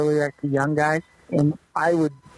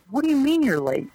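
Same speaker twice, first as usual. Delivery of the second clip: much higher, incredulous retold question; clubhouse manager, baffled; 11 semitones higher than usual. Manager baffled by the rookie's panic, much higher voice. Retold locker room exchange.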